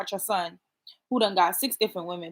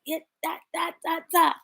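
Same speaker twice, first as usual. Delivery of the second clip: imitating brother's chatter; 9 semitones higher than usual. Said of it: "My brother could say anything".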